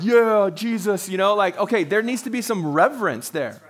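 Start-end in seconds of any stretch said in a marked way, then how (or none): 0.0-1.1 slow, drawn-out overfamiliar cheer; mock casual familiarity. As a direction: stretch it out like greeting a buddy, mockingly. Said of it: "people are always like".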